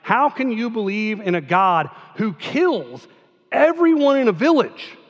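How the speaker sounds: critic's question. Retold or imitated. Pastor voicing a critic of the conquest, rising challenge. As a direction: voice the skeptic pressing the point. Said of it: "heard this argument".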